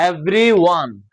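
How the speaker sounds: everyone sounded out as ev-ry-one; teacher's careful everyone; broken into parts. Shown as a demonstration. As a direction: say everyone in measured syllables. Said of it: "বাক্য করে করবো।".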